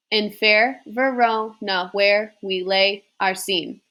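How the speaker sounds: slow, measured sing-song verse reading; slow iambic poetry reading; poem recitation. Acted. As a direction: read it out beat by beat like a classroom recital. Reads Shakespeare prologue aloud, slowly.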